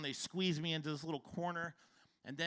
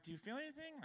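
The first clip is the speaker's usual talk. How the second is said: hushed; 9 semitones higher, 11 dB quieter, faster than usual. Retold or imitated. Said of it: "She's like".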